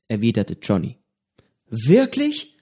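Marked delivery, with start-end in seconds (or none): 1.7-2.5 staunend. A narrator's reading. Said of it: "rief Petro und riss die Augen weit auf".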